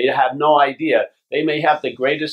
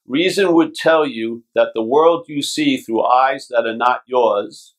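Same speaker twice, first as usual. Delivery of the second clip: slow scripture reading. Acted. Reading from the Course.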